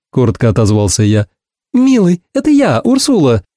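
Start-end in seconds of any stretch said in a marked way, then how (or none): 1.7-3.4 much higher, sweet ringing woman's voice; piercing Ursula. A narrator's reading. Ursula chirping to her old friend on the phone, high and piercing. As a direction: coo down the phone like a society girl. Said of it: "звучал так пронзительно".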